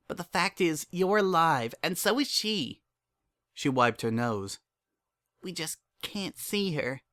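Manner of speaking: a daughter talking her father round; young filly Dinky. A narrator's reading.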